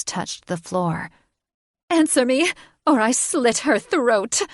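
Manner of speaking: high, loud desperate threat; frantic, furious bird woman. Acted. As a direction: scream for his love, then threaten. Catherine's threat peaks.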